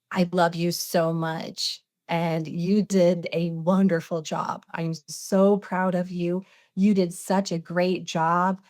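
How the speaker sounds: tender. Retold or imitated. Jesus voiced speaking lovingly.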